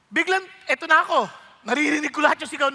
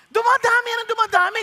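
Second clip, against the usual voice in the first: rising, louder repeat; louder emphasis; 4 semitones higher, 4 dB louder than usual. Shown as a demonstration. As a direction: build it up, louder. (palakas na pagdiin)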